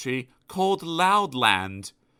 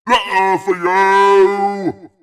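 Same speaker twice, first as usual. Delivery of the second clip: higher, very loud greeting; shouting postman; 8 semitones higher, 11 dB louder, much slower than usual. Acted. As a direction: yell it at the door.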